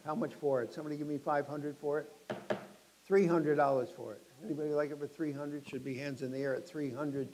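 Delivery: brisk auctioneer calling out bids. Acted. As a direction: rattle off the bids to the room.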